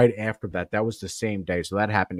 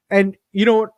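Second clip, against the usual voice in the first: high, loud rhetorical turn; emphatic; 11 semitones higher, 5 dB louder, faster than usual. Real, not acted. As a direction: pitch up to make the point.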